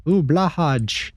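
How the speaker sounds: ooh, stretched out slowly and up high; slow, high, delighted ooh; delighted coo. Real, not acted. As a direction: coo at a cute plush toy. Spots a plush shark toy.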